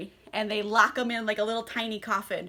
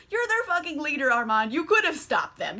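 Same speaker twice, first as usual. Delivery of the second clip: high-starting, quick accusation; mock calling-out; 4 semitones higher than usual. Louis blaming their leader Armand, mock accusing. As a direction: throw the blame at him, imitating outrage. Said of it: "he calls him out on his shit".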